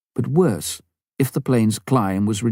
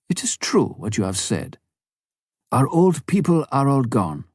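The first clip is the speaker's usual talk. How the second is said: put-on old man; 4 semitones higher than usual. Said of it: "an old man, stood up and said".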